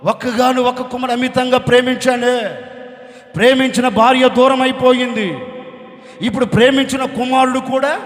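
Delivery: mock wail, loud and insistent; acted lament. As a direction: preach out a bereaved father's lament. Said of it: "గుండెలు బాదుకొని ఏడుస్తున్నా".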